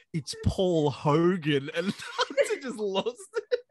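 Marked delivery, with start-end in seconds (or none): 0.1-1.7 slow Paul Hogan bit. Retold or imitated. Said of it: "And then I went".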